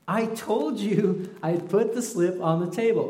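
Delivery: high, slow, lightly voiced mom reminding; a hint of a tired mother; patient mom. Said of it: "My mom's like".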